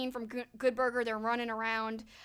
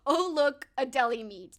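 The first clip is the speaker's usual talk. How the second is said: quoting Heavyweights again; 6 dB louder than usual. Retold or imitated. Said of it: "the pause and the way he says it".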